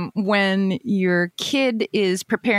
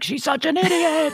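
put-on bratty kid; 10 semitones higher than usual. Kid grumbling upstairs, retold.

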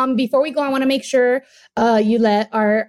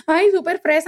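teasing friends; 5 semitones higher, faster than usual. Retold or imitated. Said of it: "they'd be like".

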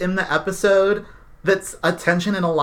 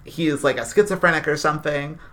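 imitating Anson; 5 semitones lower, 4 dB quieter than usual. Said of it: "the way Anson explains it is".

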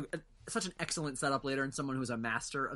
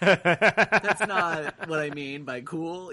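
laughing; 3 semitones higher, 9 dB louder, much slower than usual. Real, not acted. Laughing while correcting himself.

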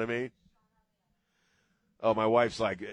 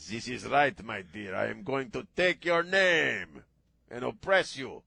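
lightly put-on Hispanic accent, slowed; a light mock Hispanic accent to his wife; 4 dB louder than usual. Host addressing his wife in a light mock Hispanic accent. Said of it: "me doing the Hispanic accent".

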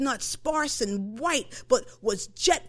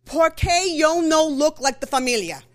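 put-on fast, louder child's Spanglish with a laugh in it; child blurting; 4 semitones higher, 7 dB louder than usual. Girl pleading with her abuela why she looks different, loud and laughing. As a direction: rush it like a ten-year-old too fast for grandma. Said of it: "I was like".

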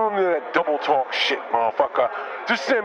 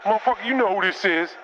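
lightly voiced brash inmate caller; a swaggering jailbird on the phone; Bizarro Steph. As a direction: Bizarro Steph calling from jail, mild put-on swagger. Bizarro Steph calling from jail.

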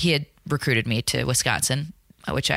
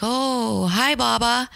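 higher, sugary-sweet hello to grandma; 9 semitones higher, much slower than usual. Retold or imitated. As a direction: play innocent and sweet for grandma. Granddaughter answering on phone.

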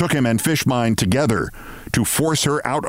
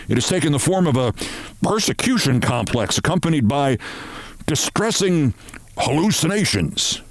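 ponderous company chief; 3 semitones higher than usual. Acted. Chief telling Martin of a breakdown, ponderous. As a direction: weigh each delicate phrase.

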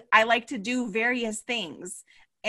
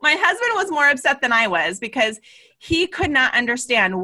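laughing through the words; 3 semitones higher than usual. Real, not acted. Retelling her husband's reaction while laughing. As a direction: let the laugh spill into the line.

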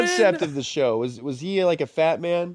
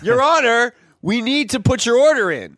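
waiter voice; 4 semitones higher than usual. Pretend. Waiter addressing judge.

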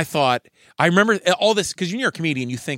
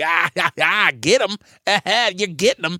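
mock cheering buddy; 5 semitones higher than usual. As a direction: egg him on like a rowdy friend at the table. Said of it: "his buddy is pounding on the table like".

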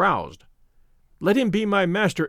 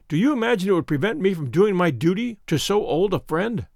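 ordinary delivery, nothing marked

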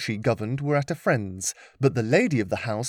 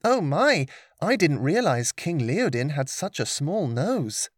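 put-on higher, playful young girl; relaxed joking girl; 3 semitones higher than usual. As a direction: deliver a light joke. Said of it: "Lillian relaxed and said".

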